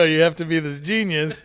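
mocking while laughing; laughing tease. Real, not acted. Teasing with laughter.

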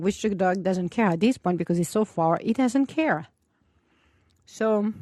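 talking while eating yogurt; words round a spoonful; mouth full. Real, not acted. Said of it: "sorry, I'm eating my yogurt right now".

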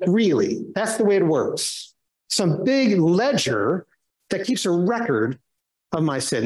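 sarcastic disbelief, drawing out "big ledger". Acted. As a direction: scoff mildly at the whole idea. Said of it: "I said those words kind of sarcastically".

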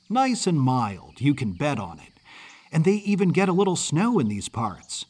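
lightly voiced chatty kid, mid-Atlantic accent; quick-talking Yankee boy. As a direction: rattle on like a friendly Yankee boy. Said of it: "The boy spoke quickly".

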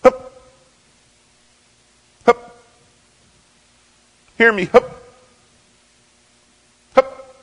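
loud calls drifting off; shouting into a storm from afar; shout carried by wind. Retold or imitated. Musher's calls blown back through the blizzard, fading shouts. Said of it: "his voice kept getting carried back by the wind".

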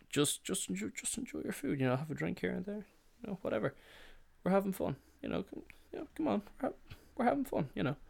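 very high, soft wheedling voice; hammed-up high, quiet cajoling; mock easygoing pleading. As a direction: coax them in a tiny put-on voice. Mocking easygoing advice to eaters.

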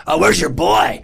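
retold taunt, lightly jeering; taunting insults. Comic retells bombarding his rival with insults, taunting. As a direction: needle them with a mocking question. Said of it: "started bombarding you with insults".

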